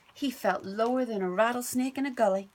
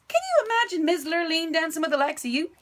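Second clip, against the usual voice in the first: louder, higher sneering jeer; mocking taunt; 8 semitones higher, 4 dB louder than usual. Stepbrother mocking Bubba, loud sneering. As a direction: jeer at him. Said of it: "said Milton".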